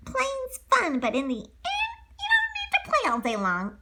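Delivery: crying. Acted. Pinocchio crying.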